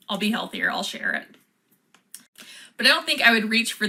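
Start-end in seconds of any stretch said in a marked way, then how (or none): 0.7-1.3 whispered, much softer and lower; whispered aside. Real, not acted. To viewers, a whispered repeat of the sharing promise. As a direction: breathe it out as a private promise.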